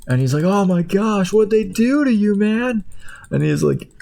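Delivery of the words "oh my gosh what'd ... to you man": squeaky high character voice; high cartoon voice. Hot dog shocked at the rubber sock, high cartoon voice. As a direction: pitch way up as a shocked little food.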